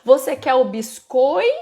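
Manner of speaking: "biscoito" com pausa antes do "to" final; final deixado para completar. Shown as a demonstration. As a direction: estique "biscoi" em pergunta e espere o "to". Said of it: "deixa o finalzinho pra essa criança completar". (segure o fim de "biscoito" para a criança completar)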